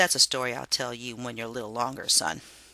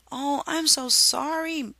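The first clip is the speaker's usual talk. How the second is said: sorrowful; 12 semitones higher, 4 dB louder, slower than usual. A narrator's reading. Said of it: "Harriet said".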